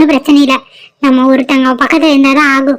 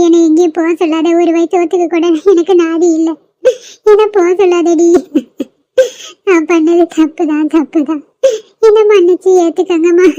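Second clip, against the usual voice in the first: crying plea. Acted. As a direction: choke out the apology. Grandmother begs not to be sent away.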